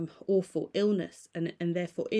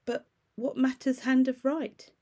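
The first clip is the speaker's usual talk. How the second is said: higher, with a lift in energy; another voice; 6 semitones higher, 4 dB louder than usual. A narrator's reading. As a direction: shift into a more animated voice. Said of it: "with another voice".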